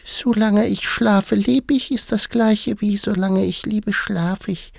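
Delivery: slow, extremely high mouse squeak; tiny, dreamy dormouse voice; sleep-talking dormouse. A narrator's reading. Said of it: "die offenbar im Schlafe sprach".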